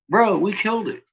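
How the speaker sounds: high, pumped-up "Bro, we killed it"; excited. Real, not acted. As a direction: cheer the win, voice up high. Celebrating beating the trolls.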